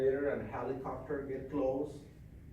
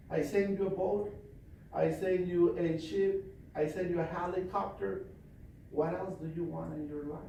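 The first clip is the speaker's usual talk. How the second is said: higher, incredulous reply; exasperated Saint Peter; 4 semitones higher than usual. Acted. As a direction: list the rescues in disbelief.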